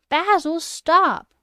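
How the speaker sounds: high, loud pretend yell of Basil, stop; mock shout. Guessing the show's line to her viewers, mock shout. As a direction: call out as if at the TV. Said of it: "Like that?".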